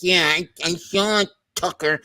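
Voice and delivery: soft, lightly put-on Mahomes voice; a thin imitation of his press voice; mock Mahomes. Teasing a rival quarterback with a soft mock voice. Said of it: "Mahomes talks like this".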